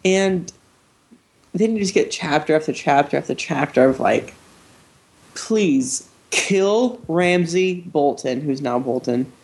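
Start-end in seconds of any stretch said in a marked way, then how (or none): 5.4-8.4 slow, drawn-out plea; pleading. Acted. Reader begging the author for a villain's death, slow plea. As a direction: beg it out one word at a time.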